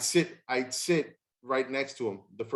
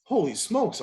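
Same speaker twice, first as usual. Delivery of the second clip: mock surprise; 8 semitones higher, 4 dB louder, slower than usual. Broke the bat, shocked.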